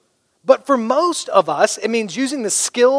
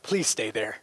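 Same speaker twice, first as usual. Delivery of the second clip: low, much softer mutter; hushed private plea; under my breath; 10 semitones lower, 12 dB quieter than usual. Retold or imitated. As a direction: say it so he can't hear. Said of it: "under my breath, where he couldn't hear me".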